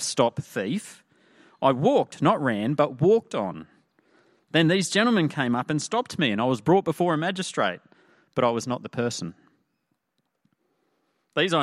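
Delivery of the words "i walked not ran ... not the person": lightly acted accused man, higher and animated; protesting innocence. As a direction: plead your innocence in court, mildly dramatised. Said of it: "proclaiming his innocence".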